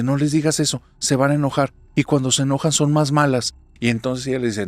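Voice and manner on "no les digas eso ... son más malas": nervous. Acted. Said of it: "se pone bien nerviosa".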